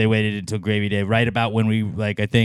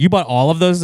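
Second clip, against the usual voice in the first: higher, louder disbelief; surprised wife; 8 semitones higher, 6 dB louder than usual. Retold or imitated. Wife surprised at the gear haul, higher voice. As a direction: let the shock lift it. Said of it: "And she's like".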